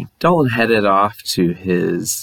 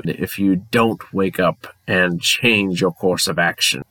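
put-on English accent. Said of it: "All ghosts have to have an English accent".

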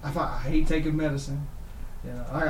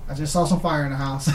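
laughing; 9 dB louder than usual. Real, not acted. Laughing retelling.

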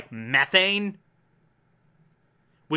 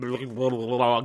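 low burbling mouth noise; garbled gibberish; 6 semitones lower, 4 dB quieter than usual. Shown as a demonstration. Showing how evolution muddled eyesight, garbled babble.

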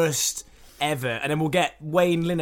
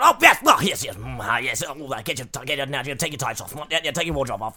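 frantic posh Dickinson. Retold or imitated. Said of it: "He's like".

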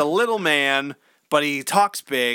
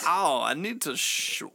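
softer, slow, low; mumbled excuse; 3 semitones lower, 6 dB quieter, slower than usual. Retold or imitated. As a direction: trail off into an awkward dodge. Walken evasive aside.

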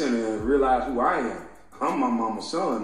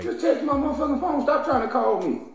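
exasperated rant; 14 semitones higher than usual. Real, not acted. Ranting at callers.

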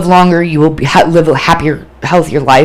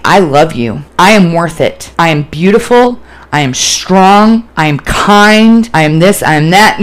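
firm, building self-affirmations; growing confidence, each claim landing squarely; confident. Retold or imitated. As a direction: declare it with conviction, stretching key words. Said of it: "I started becoming more confident that week".

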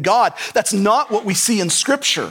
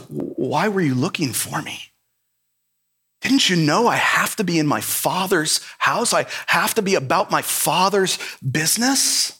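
completely calm; 4 semitones lower than usual. Retold or imitated. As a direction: answer gently, completely at ease. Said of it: "completely calm".

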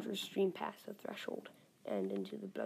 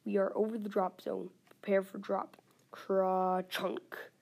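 plane announcement; 5 dB louder than usual. Acted. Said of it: "an announcement on the plane speaker".

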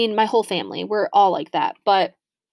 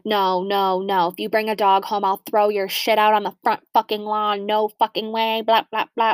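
lightly voiced ranting mom; a hint of a mom laying down the law; Jody. Mom refusing to let her daughter bring a dog home, lightly imitated rant. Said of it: "this is how she talks".

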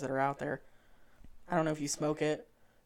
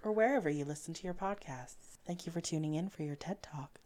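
customer service voice; 2 semitones higher than usual. Shown as a demonstration. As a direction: demo the creepy-polite helpline voice. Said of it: "I sound like a psychopath when I speak like that".

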